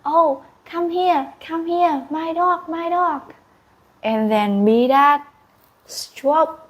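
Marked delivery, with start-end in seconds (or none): 0.0-3.3 coaxing a dog. Acted. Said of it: "and Medad said".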